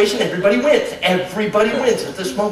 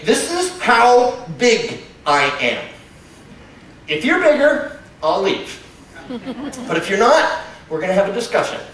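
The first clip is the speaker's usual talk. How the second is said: bear sizing you up; 2 semitones higher than usual. Acted. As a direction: state your size like a confident bear. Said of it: "it's saying".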